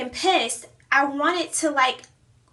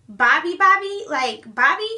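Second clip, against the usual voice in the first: shocked disbelief; 3 semitones higher, 5 dB louder than usual. Retold or imitated. Hearing her friend slept with Bobby, shocked disbelief. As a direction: repeat the name in stunned disbelief.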